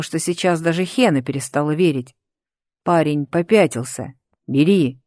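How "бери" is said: louder angry command; barked. A narrator's reading. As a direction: bark the order at him. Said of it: "рявкнул Рейнардо".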